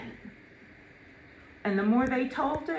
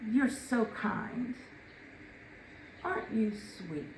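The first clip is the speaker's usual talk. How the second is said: humble gracious reply; 9 dB quieter than usual. Retold or imitated. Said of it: "standard, humble responses".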